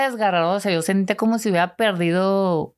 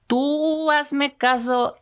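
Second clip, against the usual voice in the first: stern mother; 6 semitones higher, much slower than usual. Retold or imitated. Mother voiced giving orders.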